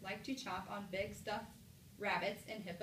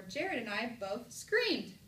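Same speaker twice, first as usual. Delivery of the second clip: slow exclamation, punching "screamed"; exclamation reading; 4 dB louder, much slower than usual. Shown as a demonstration. Teacher asks which way sounds best, emphatic exclamation. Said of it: "Which way does it sound best?".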